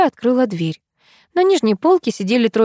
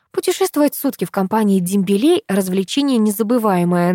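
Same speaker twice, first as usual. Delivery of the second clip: ordinary delivery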